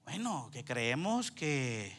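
mumbled trailing answer. Retold or imitated. Mimics fumbling answer, trailing off.

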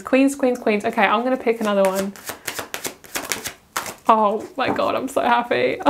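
ordinary talk

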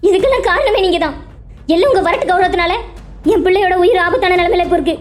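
tearful, wailing reproach; mother's accusing lament. Acted. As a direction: blame your husband through your grief. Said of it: "ஒப்பாரி வைக்காத".

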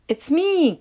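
a small duckling squeaking out; cried out. A narrator's reading. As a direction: Piddle cries out from the branch, high. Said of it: "cried Piddle".

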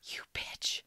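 whispered playful curse; mock outrage whisper. Real, not acted. Friend reacting to an impossible choice, mock outraged whisper. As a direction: hiss it under your breath in mock outrage.

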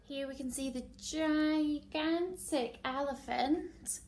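lively, emphatic picture-book narration; story reading to children. Acted. Teacher reading a favourite animal book to class, animated storytelling. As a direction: read it to little ones, drawing out key words.

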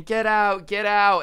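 panicked host yelling get out; retold scream. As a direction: shout the warning at the crowd. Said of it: "he's just screaming".

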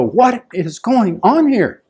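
high, slow, drawn-out disbelief; acted bewilderment. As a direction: stretch it out, mildly baffled. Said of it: "make you go".

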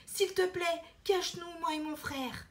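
put-on urgent little-girl plea; pleading girl. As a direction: beg like a frightened girl. Elena begs again.

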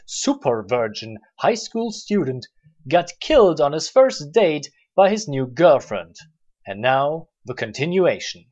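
low, deliberate recap voice; trailer announcer. Acted. Recap intro voice.

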